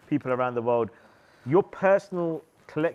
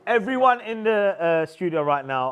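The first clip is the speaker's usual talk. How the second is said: hype call; 4 semitones higher, 4 dB louder than usual. Real, not acted. Hyping up the studio.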